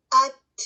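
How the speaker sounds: slow ات, sound halts, breath carries on; stopped ta demo. Shown as a demonstration. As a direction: drag out ات to show the stop. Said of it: "جیسے".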